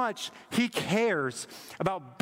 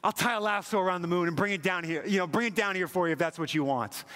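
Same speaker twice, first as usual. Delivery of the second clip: eager movie suitor. Retold or imitated. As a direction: promise her the moon, all eager. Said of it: "the guy just says".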